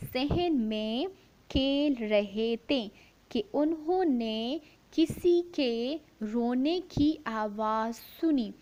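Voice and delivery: slow, clear story reading for a class; measured classroom read-aloud. Shown as a demonstration. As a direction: read it out word by word for the children. Teacher reads story aloud.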